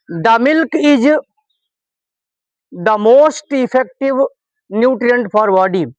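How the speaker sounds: slow, word-by-word model sentence; slow dictation. Shown as a demonstration. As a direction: read each word out slowly for the class. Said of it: "दोनों का pronunciation अलग-अलग होगा".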